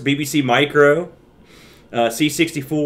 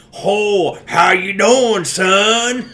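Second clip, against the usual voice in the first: put-on American hick accent; 6 semitones higher, much slower than usual. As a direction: holler it like a folksy American hick. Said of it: "like, a hick accent".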